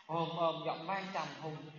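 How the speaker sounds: a general's deep, slow voice. Shown as a demonstration. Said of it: "nghe giọng mấy ông tướng nói khác không".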